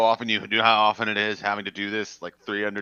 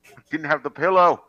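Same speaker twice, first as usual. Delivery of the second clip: much higher, loud terrified shriek; panicked scream; 14 semitones higher, 10 dB louder than usual. Acted. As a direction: panic as if doomed. Panics after blinking.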